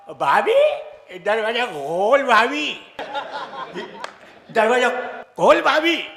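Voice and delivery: put-on slow, drawn-out drunken coaxing. Drunk friend coaxing sister-in-law to open door, slow drunk drawl. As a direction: lean on the door and plead lazily.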